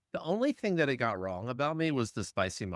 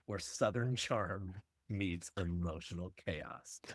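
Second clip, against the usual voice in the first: horror trailer voice; 3 semitones lower, 5 dB quieter than usual. Acted. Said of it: "Dramatic movie trailer voiceover".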